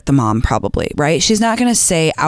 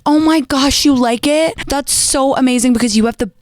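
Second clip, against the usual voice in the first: much higher, gushing mock compliment; fake sweet; 7 semitones higher than usual. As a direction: smother the jab in sweetness. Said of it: "You are gonna be so sweet to her".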